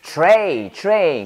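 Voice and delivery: 트레이 with an 'ay' glide, never 'ai'; corrected pronunciation. Shown as a demonstration. Teacher correcting the army word, model pronunciation. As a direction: say 트레이 clearly as English tray. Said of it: "트라이가 아니라 영어로 뭐다?".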